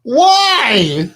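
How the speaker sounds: asked through laughter; laughing. Real, not acted. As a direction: ask while still laughing. Laughing while asking.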